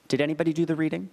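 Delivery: brisk, dry lecturer's question to a silent hall; lightly voiced weary professor checking on the class; patient college professor. Professor asks a lecture hall about the reading, lightly voiced and brisk. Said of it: "like a patient college professor who looks out at a lecture hall and says".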